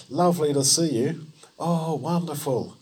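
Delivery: mock-gushing hello; gushing greeting. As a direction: act out a fussing welcome. Fussing crowd greets revived girl.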